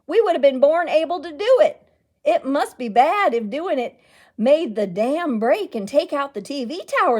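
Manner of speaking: loud, rising indignant mayor harangue; ranting mayor. Acted. Mayor whipping up the crowd against reading, loud and indignant.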